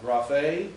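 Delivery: raphe, accented on its final syllable; stress on last syllable. Shown as a demonstration. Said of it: "last syllable".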